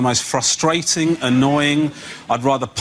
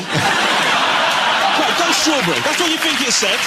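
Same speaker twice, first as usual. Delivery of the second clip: exasperated rant; 10 semitones higher than usual. Retold or imitated. Frustrated parent rant.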